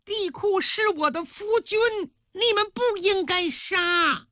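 very high, theatrical outrage; indignant rebuke. Acted. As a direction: spit back in a high, protesting voice. Queen rebukes servant over husband.

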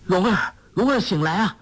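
high urgent calling of a name, voiced for Guo Jing; anxious calling. A narrator's reading. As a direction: call her name, pleading her to wake. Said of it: "连叫". (焦急地高声呼唤)

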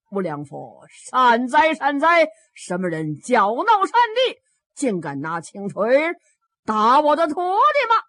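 loud, booming rebuke; stern Taoist master. Acted. Taoist master rebukes whoever struck his disciple, loud and stern. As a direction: thunder it like an angry abbot.

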